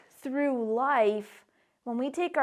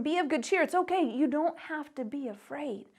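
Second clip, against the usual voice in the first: gentle reassurance; 7 dB quieter than usual. Acted. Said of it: "and he tells them".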